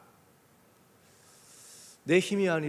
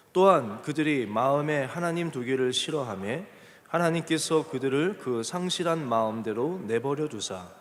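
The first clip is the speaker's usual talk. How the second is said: scripture reading; 4 dB louder than usual. Acted. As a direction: lead a congregation reading aloud together. Leads congregation in scripture reading. (천천히 또박또박 성경 봉독)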